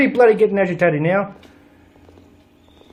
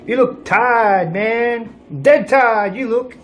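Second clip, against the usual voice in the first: mock friendly taunt; 6 semitones higher, slower than usual. Player jokingly taunts a sleepy asylum patient, mock friendly. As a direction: tease him like a mate.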